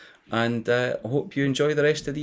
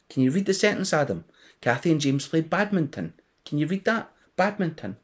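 lightly voiced kind teacher; 4 semitones higher than usual. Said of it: "Miss Ski Hall's nice, nice voice".

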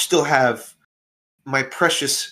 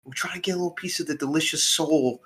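gangster voice; 3 semitones higher than usual. Acted. Mobster pushing a deal.

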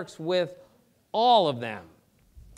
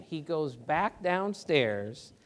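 ordinary talk

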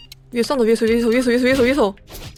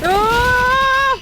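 shout; 11 semitones higher, 4 dB louder than usual. Real, not acted. Yelling at game action.

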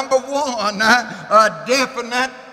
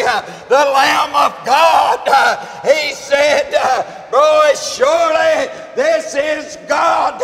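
preaching climax; 3 semitones higher than usual. Acted. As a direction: build the sermon to a shouting crescendo.

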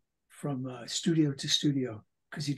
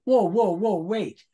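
startled; 5 semitones higher, 8 dB louder, slower than usual. Retold or imitated. Startled reaction in retold exchange.

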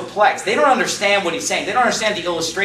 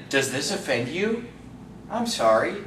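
lower, softer mock-concerned question; mock apology; 4 semitones lower, 8 dB quieter than usual. Jesus to murmuring disciples, quietly mock-apologetic. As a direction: drop the voice into a feigned apology.

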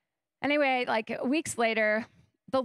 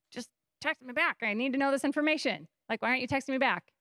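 frustrated; 3 semitones higher, faster than usual. Retold or imitated. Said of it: "So frustrating".

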